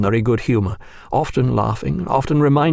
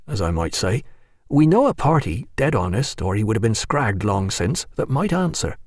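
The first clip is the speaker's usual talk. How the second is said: sly sailor aside. Acted. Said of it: "out of the corner of his mouth he said".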